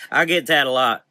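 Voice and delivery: put-on loud, high Southern Belle accent. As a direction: greet him with Southern Belle charm.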